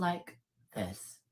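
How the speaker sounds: first step down toward a deep voice. Shown as a demonstration. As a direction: drop the voice a little, drawn out. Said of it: "but your voice sounds like this".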